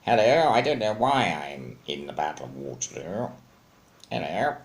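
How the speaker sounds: put-on officer voice, swooping start then settling; Officer Steele. Shown as a demonstration. Baffled officer at the Battle of Waterloo, in his proper character voice. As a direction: play the toy officer with an affected accent. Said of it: "Officer Steele talks like this".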